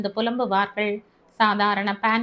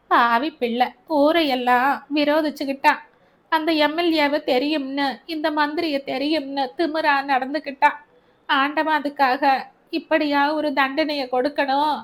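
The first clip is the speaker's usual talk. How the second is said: put-on grieving old mother; 4 semitones higher than usual. Mother lamenting her dead son to Albert, higher and aggrieved. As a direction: wail at God over her son's fate.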